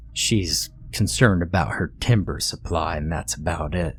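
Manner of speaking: low dismissive scoff. Acted. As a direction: brush it off with contempt. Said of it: "Faxton scoffed".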